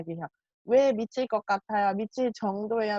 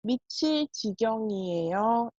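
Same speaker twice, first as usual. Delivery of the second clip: slow model sentence. Shown as a demonstration. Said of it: "이렇게 이야기합니다".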